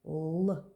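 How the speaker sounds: Л said soft, like the Russian letter. Shown as a demonstration. Teacher contrasting the Russian Л. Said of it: "This sound is more hard respect in English".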